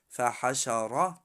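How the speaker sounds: فحشر with a thick, heavy final ر. Shown as a demonstration. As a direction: make the ر in فحشر full.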